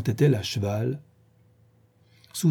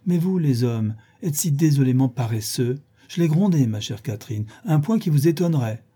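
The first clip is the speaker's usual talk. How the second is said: gushing Isabelle; 2 semitones higher than usual. Acted. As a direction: tease the lazy men, all affectation. Isabelle scolds James playfully.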